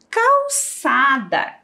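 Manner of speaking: calçada stretched out slowly with a falling end; calçada drawn out for the class; slow and clear. Shown as a demonstration. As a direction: say calçada slowly so pupils hear each sound. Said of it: "Calçada também começa com a letra C".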